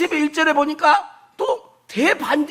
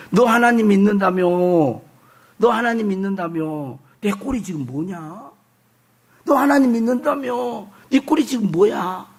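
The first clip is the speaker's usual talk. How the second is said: lightly acted jeer at a believer; mocking taunt; 4 semitones lower than usual. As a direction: needle them with a lower-pitched, mocking challenge. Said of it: "그러면서 조롱하는 말이에요". (낮게 조롱하듯)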